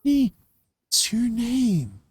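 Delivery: put-on teacher voice, stretched out; exasperated teacher. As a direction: repeat it slowly, high, as a teacher. Teacher asks the whispering girl again.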